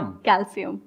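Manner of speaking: "कैल्शियम" as kal-si-um, with s; corrected pronunciation. Shown as a demonstration. Teacher confirming the student's answer, s instead of sh. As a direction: say "कैल्शियम" softly with s, not sh. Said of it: "तो क्या होता है?".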